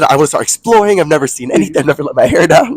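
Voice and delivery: high, loud, dreamy mock quote; mocking imitation. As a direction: ham up her friend's wish to explore. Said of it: "you said".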